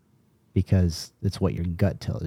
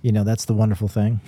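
sarcastic; 2 semitones higher than usual. Real, not acted. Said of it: "And I'm saying that sarcastically".

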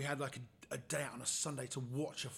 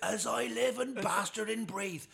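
slow, swaggering louder greeting; cocky bully; 9 semitones higher, 8 dB louder, slower than usual. Retold or imitated. School bully greeting him on the road, cocky and loud. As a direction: drag out the name like a cocky bloke. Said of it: "and he goes".

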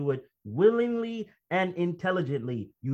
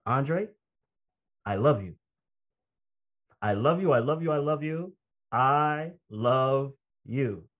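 lightly imitating a programmed recording, lower pitch; taped voice; 4 semitones lower than usual. Preacher replaying his own cassette message to himself, lightly mechanical recorded voice. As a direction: repeat it mechanically, slowing right down at the end. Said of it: "the voice on the tape said".

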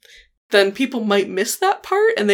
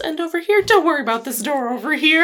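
cheery sinister host showing around; Jaguar impression; 5 semitones higher than usual. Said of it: "I love your Jaguar impression".

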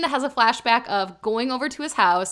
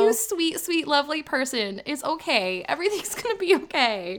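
tender comforting; 3 semitones higher, 4 dB quieter than usual. Pretend. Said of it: "embrace her and be like".

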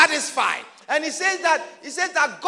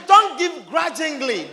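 scripture proclaimed; 4 semitones higher, 4 dB louder, slower than usual. Acted. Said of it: "It says".

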